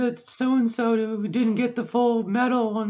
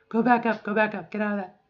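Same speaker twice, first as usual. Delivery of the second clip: going back up; 3 dB louder, faster than usual. Real, not acted. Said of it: "Okay, go back up".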